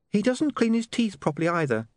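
high, disapproving objection; Saccharissa, disapproving. Acted. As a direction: complain primly in a high voice. Narrator voices Saccharissa.

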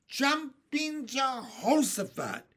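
high, loud, drawn-out exclamation; big cartoonish whoop of astonishment; astonished cry. A narrator's reading. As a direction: cry out in amazed unison, hammed up. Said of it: "they cried".

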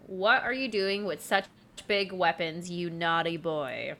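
lightly mocking quote, slowing at the end; mildly taunt, drawing out "you naughty boy". Apollo to Eros over his weapons, lightly mocking. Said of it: "he said this to mock Eros".

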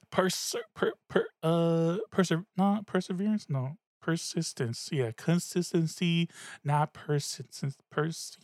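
tipsy slurred stumbling words; tongue tripping over the words; slurring. Real, not acted. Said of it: "The wine's kicking in 'cause I'm slurring".

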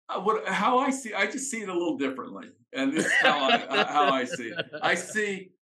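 laughing. Real, not acted. Laughing while disagreeing politely.

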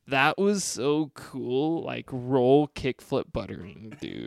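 slowed, spaced-out stoner voice; dazed stoner drawl, lightly done; stoned. Acted. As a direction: say it like you're baked and amazed. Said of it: "We gotta say it like, like we're stoned".

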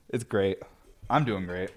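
understated, not sounding great at all; unconvincing positivity. Real, not acted. Stressed speaker insisting he's doing great, unconvincing positivity. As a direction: claim to be fine without sounding it. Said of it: "my tone and the way I'm saying it might not sound like it".

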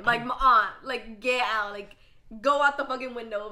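urgent. Pretend. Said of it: "I'd be like".

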